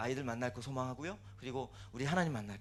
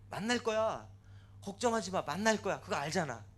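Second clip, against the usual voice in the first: acted encouragement, higher and louder; emphatic reassurance; 4 semitones higher, 4 dB louder than usual. God promises reunion to the parent, emphatic reassurance. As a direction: assure firmly with a lifted voice.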